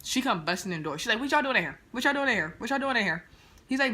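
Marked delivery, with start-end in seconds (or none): 1.2-3.2 mock mom yell. Voicing his mom bursting in.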